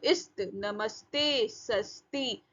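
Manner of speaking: नमस्ते, सस्ती with a half s run into t; joined consonants. Shown as a demonstration. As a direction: let the half स in इस्त lead straight into त. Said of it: "आधा स और त".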